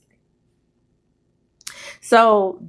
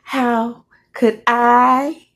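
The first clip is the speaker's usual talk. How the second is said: emphatic, disillusioned wife; 5 semitones higher, 4 dB louder than usual. Acted. Woman warning against trusting men, emphatic. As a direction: stretch and hammer each "ever". Acts wife's bitter warning.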